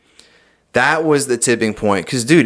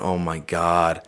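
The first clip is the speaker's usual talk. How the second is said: soft, slow, breathless oh my God; scared hush; 5 semitones lower, 7 dB quieter, slower than usual. Retold or imitated. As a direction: barely get it out, frozen with dread. Frozen at thing in mirror.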